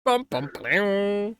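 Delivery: drawn-out "bum, bum, blam"; sung dramatic sting. Pretend. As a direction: voice a mock dramatic sound cue. Vocal sting after the recap.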